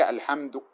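"الحمد" ending in a slight trace of u; partial vowel (rawm). Shown as a demonstration. Teacher demonstrates rawm to students, partial final vowel. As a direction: give only part of the final damma on "الحمد". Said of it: "يعني تأتي ببعض الحركة، هذا الروم".

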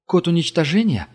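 firm probing question; Gerda asking firmly. A narrator's reading. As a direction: pin him down with it. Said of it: "уточнила Герда".

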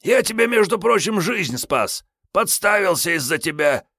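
high, heated tramp lecture; ranting stalker Kiryay. Acted. Kiryay justifying the killings to Sergey, high heated rant. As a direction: rant self-righteously.

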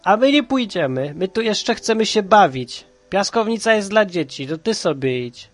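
high, loud defiant protest; shouting back. A narrator's reading. Andrzej to the bully, refusing to leave the sandbox, shouting back. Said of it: "i krzyczy".

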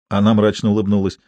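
usual speaking voice

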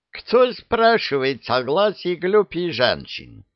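surprised. A narrator's reading. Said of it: "удивился Ара".

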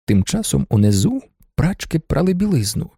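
plain reading voice

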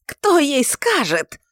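high, slow, loud yell; a loud drawn-out howl. A narrator's reading. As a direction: scream the question out. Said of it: "вопил он".

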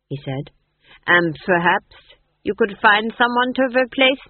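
a cold, gloating king's voice; the Duke's voice. Acted. The Duke taunting Granny, in a cold gloating voice. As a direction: lord it over the witch with icy confidence.

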